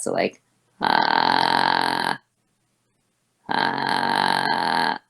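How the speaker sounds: deep creaky vocal fry; M zero fry demo. Shown as a demonstration. Teacher demonstrating deep creaky fry. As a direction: grind down into the lowest fry. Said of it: "then you get this, like, most masculine possible sound".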